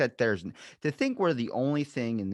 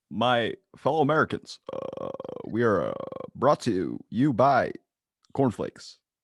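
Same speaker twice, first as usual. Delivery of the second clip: drawn-out delivery with halting pauses; 4 dB louder than usual. Doing a presidential speech impression that the speaker admits came out wrong: Barack Obama impression. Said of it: "Barack Obama".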